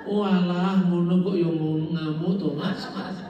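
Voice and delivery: laughing through a Javanese jab; Javanese quip. Retold or imitated. Lecturer mimicking a Javanese man, laughing. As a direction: tease in Javanese with a chuckle. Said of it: "Itu bahasa Jawa itu".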